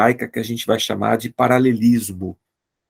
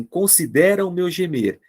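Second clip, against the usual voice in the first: higher, read out as scripture; psalm line; 7 semitones higher than usual. Shown as a demonstration. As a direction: lift it like a plea. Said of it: "Depois eu falo assim".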